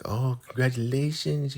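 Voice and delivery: high put-on congratulatory voice; Joan's congratulations. Friend congratulates the new wife, high mimicking voice. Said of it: "You know how Joan told".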